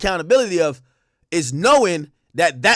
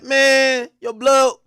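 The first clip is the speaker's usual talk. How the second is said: mock loud complaint; 8 semitones higher, 5 dB louder than usual. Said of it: "be like".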